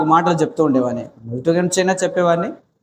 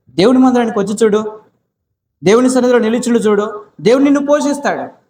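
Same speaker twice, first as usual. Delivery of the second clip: urgent plea; 5 semitones higher, 3 dB louder than usual. Retold or imitated. Urging the house owner to church.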